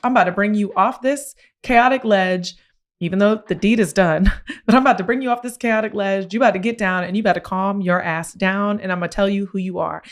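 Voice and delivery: bold, sassy pep talk with a laugh; confident self-talk. Retold or imitated. To her past self on a ledge, swaggering and confident. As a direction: talk yourself down like you own the room. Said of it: "I walked in with so much confidence".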